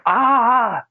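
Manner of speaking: the opposite of calm, a sharp parental outburst; mock yell. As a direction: blurt out a high alarmed shout. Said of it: "Not one that's like".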